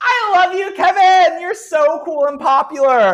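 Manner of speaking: very high, shrill, loud adoring shout. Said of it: "one person shouts".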